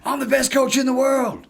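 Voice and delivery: high and loud but matter-of-fact claim; calm boast without ego. Retold or imitated. Coach answering the speaker's question, confident and ego-free. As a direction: state it as a plain fact, no swagger. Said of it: "he delivered it in a way that had no ego".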